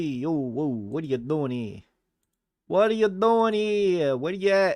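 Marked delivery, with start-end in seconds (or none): 2.7-4.8 higher and louder, calling into the void; playful raised call. Acted. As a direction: call out as if nobody answers. Streamer calling out to an empty chat.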